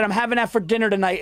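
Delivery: imitated woman with a Puerto Rican accent; slightly quick, put-on Puerto Rican accent. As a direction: quote her in a light Puerto Rican accent. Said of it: "in this accent".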